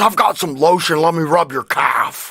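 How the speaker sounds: unsettling, sinister horror-film villain voice. Retelling a story about a man with a strange voice, the speaker imitates him as a creepy horror-villain voice. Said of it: "Silence of the Lambs and Saw".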